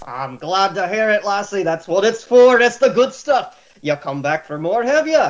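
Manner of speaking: a hint of a jolly Scottish barkeep; easygoing tavern keeper banter; lightly voiced innkeeper. GM voicing O'Toole.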